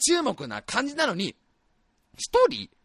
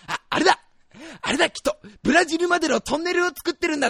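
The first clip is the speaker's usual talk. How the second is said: high, loud burst of discovery; excited guess; 9 semitones higher, 4 dB louder than usual. Acted. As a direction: blurt out a wild theory excitedly. Acts out an excited wild guess.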